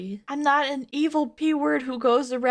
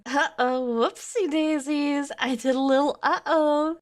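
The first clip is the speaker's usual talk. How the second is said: mock the cutesy tone, pitched up; 4 semitones higher than usual. Mocking his text in a higher babyish voice.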